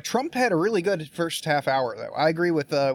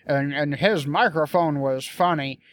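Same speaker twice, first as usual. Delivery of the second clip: mocking with a laugh.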